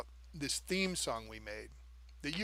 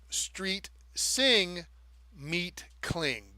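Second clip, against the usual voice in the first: mocking lyric; 4 semitones higher, much slower than usual. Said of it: "they say, like".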